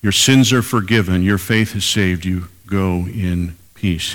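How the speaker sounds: tender, unhurried reassurance; slow tender blessing. Shown as a demonstration. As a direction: speak it gently as a personal blessing. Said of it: "Twelve words that changed her life".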